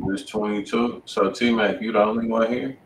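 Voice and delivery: ordinary talk, nothing marked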